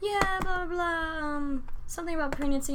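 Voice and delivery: high, chirpy mock chatter; mocking coworker. Imitating a coworker, high chatty mock. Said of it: "she was like".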